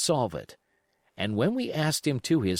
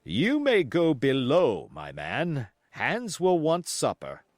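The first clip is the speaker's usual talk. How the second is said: stern captain; 3 semitones higher, slower than usual. Acted. Captain dismisses the cook.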